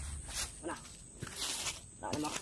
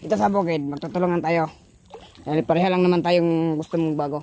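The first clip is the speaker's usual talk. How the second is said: loud; 6 dB louder than usual. Acted. Loud game banter.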